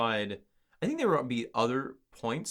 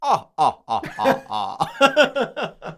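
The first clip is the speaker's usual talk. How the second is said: laughing; 5 semitones higher, 10 dB louder, much slower than usual. Real, not acted. Laughing outro.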